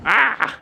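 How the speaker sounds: short, high, loud "ah"; imitated switch noise. Pilot showing how odd the fuel switch is, imitated noise. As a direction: mimic the switch with a sudden high sound.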